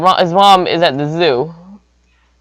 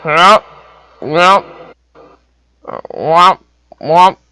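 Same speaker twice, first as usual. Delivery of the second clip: short, separate, louder womps; imitated chomping womps; 4 dB louder, much slower than usual. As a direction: voice each bite as a "womp". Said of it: "and he goes".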